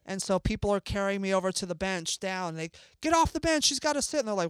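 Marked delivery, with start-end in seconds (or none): 3.0-4.2 raised pitch, bystander calling out; mild mock calling-out; retold urgent order. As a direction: urgently clear people away, reenacted. Bystanders ordering people off bench.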